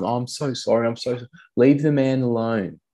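put-on a touch of an embarrassed mum pulling her kid away; flustered parent. Parent interrupts kid chatting to guest, mock fluster.

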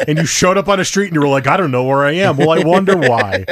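mocking sarcasm. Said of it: "And I was like".

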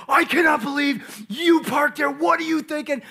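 retold angry yell. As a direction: blow up at the wife in the kitchen. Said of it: "we start yelling at each other".

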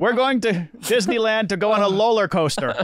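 R turned to L in "roller"; teasing imitation with "roller" pronounced loller; childish mock accent. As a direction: mimic a bad accent, saying "roller" as loller. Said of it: "that's his version of it".

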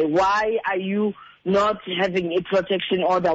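normal talking voice

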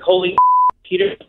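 giddy, laughing amazement; starstruck disbelief. Retold or imitated. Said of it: "And I'm like".

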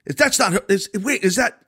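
high, halting, baffled demo; playing dumb. Shown as a demonstration. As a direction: stammer as if unsure who you're seeing. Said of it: "you have to play dumb".

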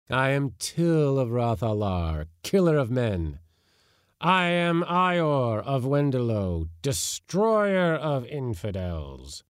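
solemn ghostly boast; ancient warrior spirits. Acted. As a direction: boom out your titles like a dead king.

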